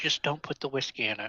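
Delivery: soft, hushed whisper. Character speaking an aside to Rick, whispering to Rick. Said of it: "I whisper to Rick".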